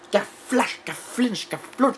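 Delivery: very high, punchy sound effects; excited blow noises. Acted. Retelling a fight seen after mass, excited high blow noises. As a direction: act out each blow in a high voice.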